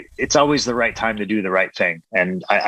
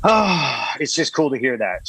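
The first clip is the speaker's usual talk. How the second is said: holding back sobs; 5 semitones higher than usual. Real, not acted. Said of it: "Sorry, I get emotional".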